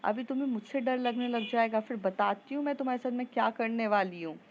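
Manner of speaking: a touch of an exasperated mother's yell; mother scolding her daughter through the door, mildly shouting. Acted. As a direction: threaten her like a fed-up mom, half-shouted. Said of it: "उसकी mummy चिल्ला के बोलती".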